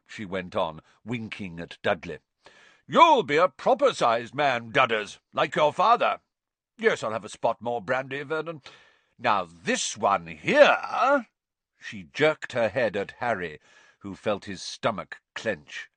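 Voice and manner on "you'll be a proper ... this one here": high, loud, doting on the nephew; fond and booming; loud aunt praising the boy, slowing for "this one here"; doting Aunt Marge. A narrator's reading. Marge to Dudley.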